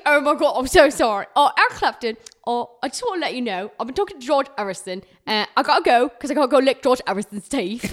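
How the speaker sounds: lightly voiced giddy wife, laughing through; wife breezily tells husband she's leaving; mock Patty. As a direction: blurt the confession with a giggle.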